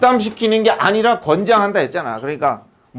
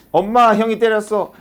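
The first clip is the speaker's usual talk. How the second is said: lightly voiced little brother, slightly higher; tattling little brother; 4 semitones higher than usual. Younger brother tells mom he was hit, lightly acted tattling. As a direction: tell on big brother, mildly acted. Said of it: "동생이".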